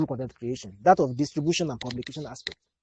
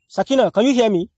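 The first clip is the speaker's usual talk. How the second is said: calling from far away; 5 semitones higher, 5 dB louder than usual. Real, not acted. Calling a student by name.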